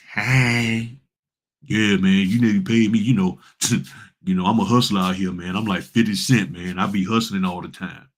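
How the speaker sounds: lightly acted street-hustler swagger; mock hustler attitude. Self-styled hustler demanding pay, mock hustler attitude. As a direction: imitate a self-styled hustler wanting payment. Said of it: "This is the attitude that people come in with".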